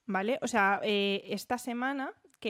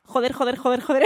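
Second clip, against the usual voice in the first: cursing on purpose, a bit louder; deliberate cursing; 3 semitones higher, 8 dB louder than usual. Pretend. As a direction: fire off the swear words deliberately. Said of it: "lo voy a hacer desde ya".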